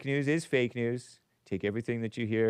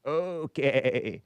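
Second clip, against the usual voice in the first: lightly imitated caller's okay; long okay with a falling tail; a hint of someone else's drawl; David in Ocala. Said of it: "David in Ocala's voice".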